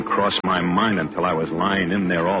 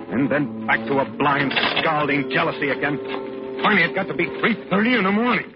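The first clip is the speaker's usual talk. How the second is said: narration climbing higher into agitation; rising jealous agitation; 6 semitones higher than usual. Acted. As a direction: build from jealousy to a high, urgent peak. Narrator relives his mounting jealousy.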